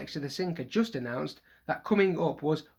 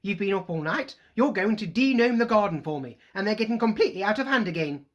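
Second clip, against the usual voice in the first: stern; 5 semitones higher, 6 dB louder than usual. Acted. Mother ordering sons.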